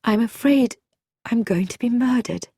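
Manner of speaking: a touch of dread, voice lifted; afraid. Acted. Visitor tells Bobby her fear, mildly afraid. Woman confesses terror to Bobby.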